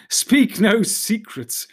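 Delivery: high, drawn-out playful warning; laughing cry. A narrator's reading. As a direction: cry it slowly with understated mirth. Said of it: "cried Gildor, laughing".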